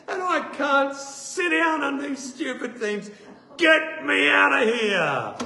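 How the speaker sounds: high, rising to a slow loud yell; exasperated demand. Retold or imitated. Patient demanding to be let out, exasperated yell. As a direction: build to a hammed-up shout.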